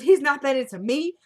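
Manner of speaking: loud, high incredulous echo; outraged disbelief. Retold or imitated. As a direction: throw his words back in shock. Kelly outraged at cop's remark.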